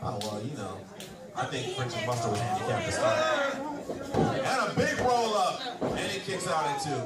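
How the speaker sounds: excited ringside play-by-play; wrestling commentator. Acted. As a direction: call the match like a wrestling announcer.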